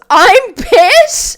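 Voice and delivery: high, loud mock outburst; all-caps shout. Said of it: "in caps, goes".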